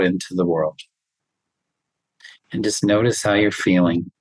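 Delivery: calm, even breathing-exercise voice; steady soothing meditation guide; guided meditation. Acted.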